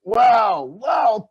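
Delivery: loud delighted wows; excited. Acted. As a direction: cheer it like a kids' host. Reacts to report.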